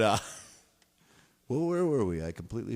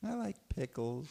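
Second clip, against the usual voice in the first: mock sad; 4 semitones higher, 4 dB quieter than usual. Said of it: "I'm a sad clown".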